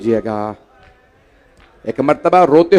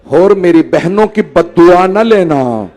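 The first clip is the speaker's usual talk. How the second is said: louder, slow, weighty warning; solemn warning; 2 semitones higher, 6 dB louder than usual. Acted. Imam warning Hur about his sisters' curse, slow and loud. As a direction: lay down each word slowly and heavily.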